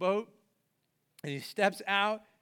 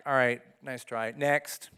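lower, offhand brush-off with a laugh; dismissive Jesus; 6 semitones lower, slower than usual. Retold or imitated. Imagined Jesus dismissing sinking Peter, offhand. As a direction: wave him off, next.

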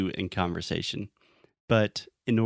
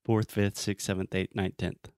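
fast. Shown as a demonstration. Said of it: "try to say it really fast".

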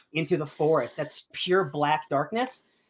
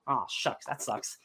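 mock shrug; 3 semitones lower, 7 dB quieter, slower than usual. Kid shrugs off defeat.

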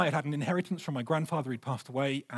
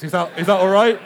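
wheedling dad; 10 dB louder than usual. Retold or imitated. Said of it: "do you think I was like".

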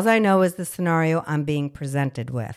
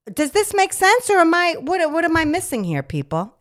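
much higher, disbelieving question; incredulous plea; 9 semitones higher, 4 dB louder than usual. Real, not acted. Nurse asking viewers what she's missing, high and incredulous. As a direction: beg them to explain it. Pleading for sense.

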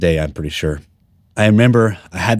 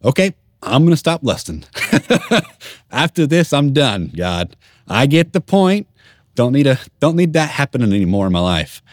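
laughing promise; 6 semitones higher than usual. Retold or imitated. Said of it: "I'm just like".

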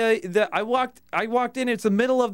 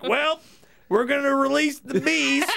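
lightly voiced older man, higher and drawn out; a mock announcement, stretched slow; older man's announcement; 7 semitones higher, slower than usual. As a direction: playfully proclaim it as an older man. Voicing an older man in restroom.

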